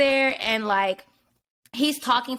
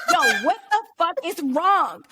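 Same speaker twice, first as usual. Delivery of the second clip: exasperated; 5 semitones higher than usual. Retold or imitated. Exasperated at silent date.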